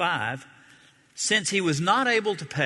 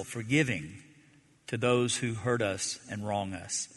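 soft, earnest prayer to close the service; closing prayer; 4 semitones lower, 3 dB quieter than usual. Real, not acted. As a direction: pray quietly and sincerely.

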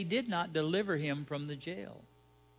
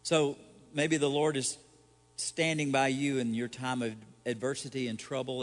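ordinary talk, nothing marked

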